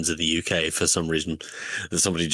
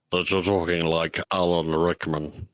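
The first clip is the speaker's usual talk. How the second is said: laughing; 2 semitones lower than usual. Real, not acted.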